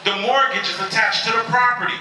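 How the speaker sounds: a hint of an insistent bank representative; lady on the phone. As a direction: draw out the name, then explain emphatically. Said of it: "And the lady said".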